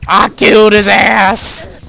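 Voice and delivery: loud, high victory yell; elated gamer screaming the win; triumphant shout. Real, not acted. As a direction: roar it out in celebration. Victory over the boss.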